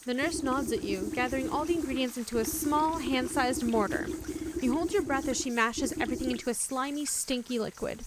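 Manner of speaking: even narrator voice reading the scene; story narration. A narrator's reading. Streamer reading the nurse scene aloud, calm narration. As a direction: read it like a game's storyteller, steady.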